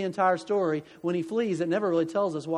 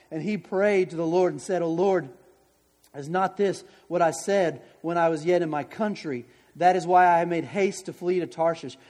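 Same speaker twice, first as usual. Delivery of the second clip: scripture reading. Acted. Reads scripture passage.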